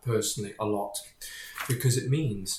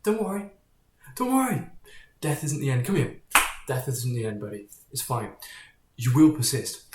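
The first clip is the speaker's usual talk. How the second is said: put-on higher, coaxing voice, like soothing a child; mock reassurance; 3 semitones higher than usual. Religion comforting a scared believer about death, in mock soothing tones. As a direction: comfort someone, a touch hammed-up. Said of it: "religion usually says".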